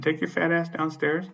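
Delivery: slow, high-pitched dismissive command; retold angry order. Tenant ordering the manager downstairs, indignant.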